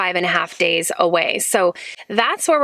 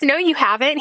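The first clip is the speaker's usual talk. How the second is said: higher, voice welling with emotion; real tears rising in a higher voice; choked up; 6 semitones higher than usual. Real, not acted. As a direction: fight back tears as you say it. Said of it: "Oh, I'm getting emotional".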